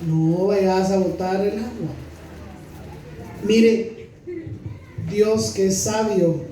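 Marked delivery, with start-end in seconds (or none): 0.1-1.9 parent warning. Retold or imitated. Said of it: "se le dice".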